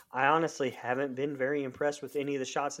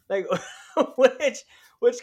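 laughing; 10 semitones higher, 7 dB louder than usual. Real, not acted. Laughing at the silly script.

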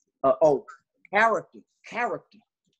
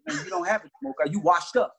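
retold aggressive taunt; 2 semitones higher than usual. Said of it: "the tone that day was aggressive".

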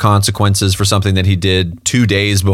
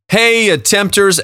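hype greeting; 8 semitones higher than usual. Acted.

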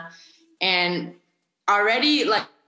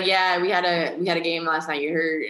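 lightly imitated Louisiana guy accent; casual Cajun chat with a slang tag; Cajun athlete; 2 semitones lower than usual. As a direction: mimic a Cajun ballplayer lightly. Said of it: "they'll be like".

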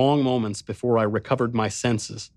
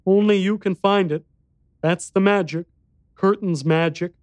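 put-on high, small boy's voice; little boy voice; 8 semitones higher than usual.

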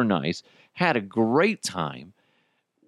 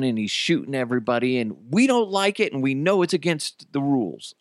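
imitated kid tattling, pitch climbing high; mock panic; 4 semitones higher than usual. Kid reporting broken rules to a dad, mock-panicked. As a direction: blurt it out like an alarmed child. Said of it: "in, like, a kind of a panic".

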